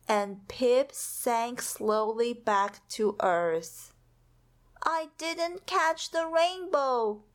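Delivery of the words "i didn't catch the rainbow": sadly. Acted. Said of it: "said Pip sadly".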